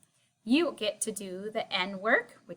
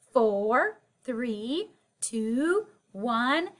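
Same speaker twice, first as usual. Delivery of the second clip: kindergarten teacher voice; 3 dB louder, much slower than usual. Acted. Counting down with class.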